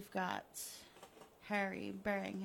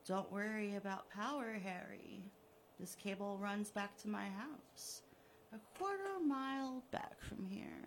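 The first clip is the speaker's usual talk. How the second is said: gloating villain. Acted. Killer taunting the buried Harry, smug and mocking. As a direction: taunt him like a cat with a mouse.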